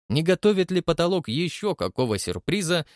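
ordinary delivery, nothing marked

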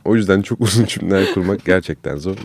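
short of breath while talking; struggling for air between words; wheezy voice. Real, not acted. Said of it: "nefes alamıyorum konuşurken".

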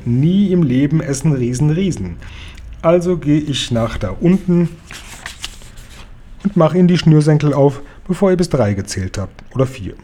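a lightly voiced big friendly giant, boastful; a hint of the giant, sure of himself, rising up; friendly giant Guri. Giant Guri boasts to the crowd, lightly voiced.

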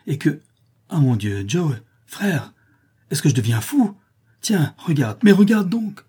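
rising into a high, loud shout of amazement; suddenly stunned, shouting to his brother; astonished cry. A narrator's reading. Sudden shock at seeing gold.

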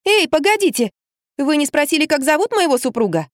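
high calling out; urgent call after him; exclaiming. A narrator's reading. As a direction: stop him from leaving. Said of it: "я воскликнула".

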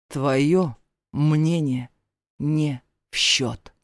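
slow, deliberate stepfather, each word rapped out; clipped and cold. A narrator's reading. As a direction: hammer out every syllable, slowly. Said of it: "Отчеканил отчим".

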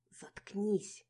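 a sharp, loud hissed command; hissed shut up. A narrator's reading. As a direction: snap it at her friend with venom. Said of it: "зашипела на меня Динка".

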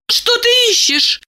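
pitched well up, puzzled; Diana's high voice. A narrator's reading. Diana asks Eliseev, high and puzzled. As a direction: ask it high.

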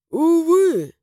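high, drawn-out sighing exclamation; sighed regret. A narrator's reading. Darren answers the highlander's bitter question, with a sigh. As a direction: let it out as a lamenting sigh. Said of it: "вздохнул Даррен".

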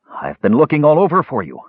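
high, eager declaration; joyful declaration. A narrator's reading. Mage greets his beloved Brandella, joyful declaration. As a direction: declare it with joy, pitch lifted. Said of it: "Kishpa declared".

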